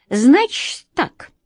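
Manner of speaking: slow sighing cat voice; a weary sigh from the cat. A narrator's reading. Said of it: "вздохнул кот".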